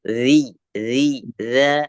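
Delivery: "Zi, zi, za" with a thin, light z; teacher's model of a light "Zi, zi, za"; thinned consonant demo. Shown as a demonstration. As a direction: drill "Zi, zi, za" as separate, drawn-out syllables. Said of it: "Ditipiskan lagi".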